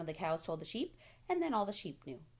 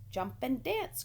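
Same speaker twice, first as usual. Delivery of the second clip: rooster crying; 6 semitones higher, slower than usual. A narrator's reading. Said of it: "cried the rooster".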